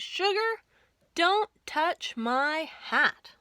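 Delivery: slow, drawled warning, sweet on sugar; lawman's slow tender warning; cowboy sheriff to wife. Acted. Sheriff warns his wife.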